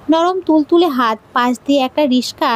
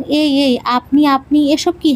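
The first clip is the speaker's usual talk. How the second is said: teasing imitation; slower than usual. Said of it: "বাক্যর শুরুতে দ্বিরুক্তি করো, যেমন".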